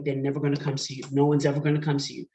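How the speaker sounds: fast, rushed inner voice; fast negative self-talk; nagging inner voice. Retold or imitated. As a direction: rattle it off like a nagging thought. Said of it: "your mind starts talking".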